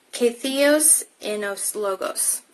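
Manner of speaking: "Ke theos enos logos" read slowly, each word spelled out clearly; slow Greek reading. Shown as a demonstration. Teacher reads the Greek verse aloud to the class, slow and careful. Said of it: "It reads".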